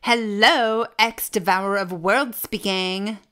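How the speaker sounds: grand villain phone greeting; dark lord picking up the phone; villain answering phone. Acted.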